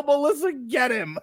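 retold yell through laughter. Podcaster mimicking his yell to his wife, laughing mock yell. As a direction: imitate a yell while cracking up. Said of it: "I have to yell".

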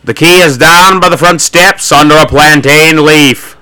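slow, drawn-out wifely singsong; acted gentle reply, taken slowly; lightly hammed-up sweet wife; gentlest voice. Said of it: "said in the gentlest voice".

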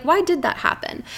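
curious outsider looking in; almost inquisitive. Shown as a demonstration. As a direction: wonder aloud without blame. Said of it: "almost inquisitive about it".

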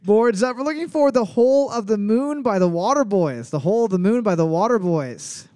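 upbeat host reading the answer; quiz host announcement. Acted. Quiz host to players, bright announcement.

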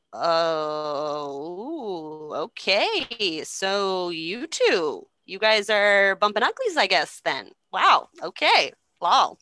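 drawn-out, knowing mock surprise; mock scandalized. Couple stumbling on secret lovers alone together, mock scandalized. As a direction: stretch it out, feigning awkward astonishment.

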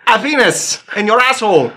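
high mock-French, H dropped from "happiness"; French accent. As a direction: imitate a French Mountie's muddled English. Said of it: "Mounties that speak French".

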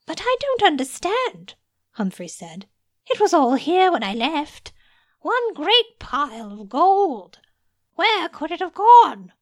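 high, loud distressed pleading; a bewildered wizard rising to a frantic cry; panicked disbelief. Acted. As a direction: scramble for an answer in alarm. Humphrey panics, gold vanished.

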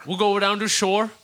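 badly faked Jersey Shore accent; half-hearted Jersey impression; terrible Jersey accent. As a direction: attempt a Jersey accent and miss. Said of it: "That was terrible".

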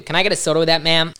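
put-on over-the-top American accent; loud, cheesy American accent; bad American accent. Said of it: "worst American accent".

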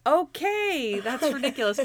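high imitated voice, mildly exasperated; mock exasperated Monk. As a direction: play him fed up with her fuss. Monk reacting to Natalie.

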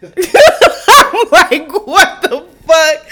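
high, loud, drawn-out incredulous laugh-talk; laughing disbelief. Retold or imitated. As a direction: crack up through mock outrage. Cracks up retelling her disbelief.

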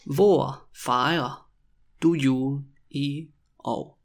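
stretched words with gaps between them; very slow, word by word. Shown as a demonstration. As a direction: dictate the question to beginners. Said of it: "when I say it really slowly".

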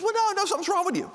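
high mimicked wife voice; bubbly wife. Bubbly wife pressing her irritable husband, high and insistent. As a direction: chirp it high, imitating a cheery wife. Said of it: "She's all happy and bubbly".

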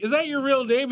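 retold surprise. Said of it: "I'm like".

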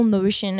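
"notion" said in an odd accented way; odd pronunciation. Real, not acted. Slipping on the word mid-sentence, odd pronunciation. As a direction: put a funny accent on "notion". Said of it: "I liked how you said it".

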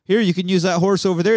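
Australian guards swallowing the lie, mock naive; mock gullible guard. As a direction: play the dupe with a sing-song lilt. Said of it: "And they're like".

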